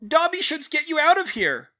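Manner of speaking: very high, loud squeaking elf voice; squeaky elf. A narrator's reading. House elf squeaking to Hermione from her shoulders, high and loud. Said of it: "Dobby squeaked".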